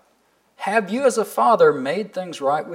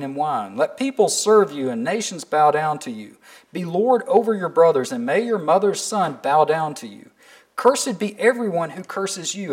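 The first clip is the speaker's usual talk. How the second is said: measured, solemn reading of the Bible passage; scripture reading. Acted. Pastor reading Genesis to the congregation, solemn and measured. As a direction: read the verses aloud to the congregation with gravity.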